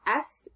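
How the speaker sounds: "s" as a bare hiss, not the letter name; isolated s sound. Shown as a demonstration. Teacher shows the sound ending rinse, isolated "s". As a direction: hiss "s" alone with no vowel. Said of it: "is making the s".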